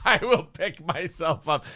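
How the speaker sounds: slow mocking echo through a laugh. Commentator mocks the drunk girl's line, slow and laughing. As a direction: parrot her words, laughing at her. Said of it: "mocking the arrested girl".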